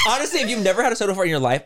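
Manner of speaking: laughing reply to the impression. Real, not acted. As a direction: laugh as you answer.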